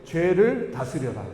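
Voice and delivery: slow, measured congregational reading; deliberate, evenly paced recitation; scripture reading. Acted. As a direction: read the verse out slowly for all to follow.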